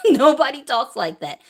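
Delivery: said again through a laugh; laughing repeat. Real, not acted. To viewers, laughing off the media claims, amused laughing repeat. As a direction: repeat it, chuckling at the absurdity.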